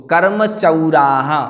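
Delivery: कर्म चौराहा slowly, "chau" fully sounded; teacher's corrective कर्म चौराहा with long vowels; careful pronunciation. Shown as a demonstration. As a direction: stretch चौराहा as chau-raa-ha. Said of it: "ध्यान रखना है इसका".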